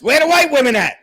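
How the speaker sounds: high, loud comic holler; loud, high-pitched Blazing Saddles quote; movie-quote holler. Acted. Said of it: "A la Blazing Saddles".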